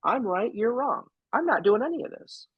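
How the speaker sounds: put-on high, pleading child's whine; imitating a defiant little kid; whiny kid voice. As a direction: play the kid who won't go to bed. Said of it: "the kid is just like".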